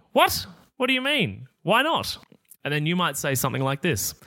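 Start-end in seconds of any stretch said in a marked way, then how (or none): 0.1-2.2 shocked disbelief. Retold or imitated. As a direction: act out a friend stunned you won't drink. Friend shocked at refusal.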